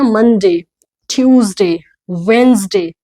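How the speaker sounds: "वेंसडे" as WENZ-day, each day separate and falling; model pronunciation. Shown as a demonstration. Teacher recapping for learners, "ट्यूसडे" as TYOOZ-day, evenly spaced. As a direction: say "मंडे" as MUN-day, each day distinct. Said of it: "देखिए ये क्या है?".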